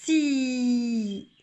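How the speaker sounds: S glided straight into I as Si; teacher blending S into I; sounds blended. Shown as a demonstration. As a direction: blend S and I into one smooth Si. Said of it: "je vais accrocher donc ce que j'ai pointé".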